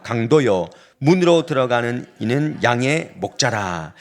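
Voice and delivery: congregational Bible reading, firm and measured; scripture read aloud. Real, not acted. Pastor leading the congregation in reading Jesus' words, measured scripture reading. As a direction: read the verse out for all to follow. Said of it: "우리 함께 읽습니다".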